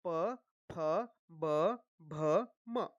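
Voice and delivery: प, फ, ब, भ, म spaced out one by one; pronunciation demonstration. Shown as a demonstration. Teacher showing how the lips meet, careful letter-by-letter articulation. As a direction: sound each lip letter from प to म separately. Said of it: "दोनों ओठ जो है वो मिलते हैं। देखिए".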